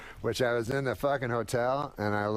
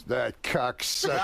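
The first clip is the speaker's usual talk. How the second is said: drawn-out curse; slower than usual. Retold or imitated. Rodney cursing a supposed friend.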